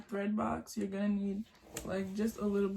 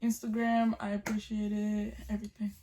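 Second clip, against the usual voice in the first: talking around a retainer; slightly lisped speech with a retainer in; wearing a retainer. Real, not acted. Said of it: "I have my retainer in, so if I'm talking weird".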